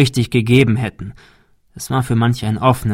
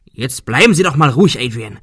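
scolding; 2 semitones higher, 4 dB louder than usual. Acted. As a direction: tell him off sharply. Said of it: "schimpfte Arthur".

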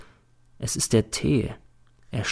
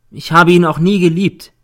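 higher, louder firm denial; somewhat louder; 7 semitones higher, 7 dB louder than usual. A narrator's reading. Girl denies ever loving him, somewhat louder. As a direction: raise your voice a little, pitched up. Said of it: "sagt sie etwas lauter".

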